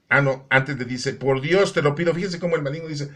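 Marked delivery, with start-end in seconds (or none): 1.1-2.1 higher, louder quoted entreaty; emphatic retold begging; quoted plea. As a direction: punch out "Dios" as you quote the plea.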